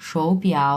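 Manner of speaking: 手表 said slowly with two tones, 手 rising and 表 dipping; Mandarin demo. Shown as a demonstration. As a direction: clear tone demo of 手表 for learners. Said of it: "তাহলে উচ্চারণ হবে এরকম".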